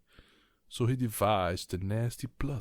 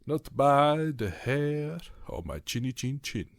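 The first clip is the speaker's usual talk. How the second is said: higher, louder squeaky pig voice; little pig shouting back through the door; defiant little pig; 7 semitones higher, 6 dB louder than usual. Acted. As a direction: refuse the wolf in a high piggy voice. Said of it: "replied the third little pig".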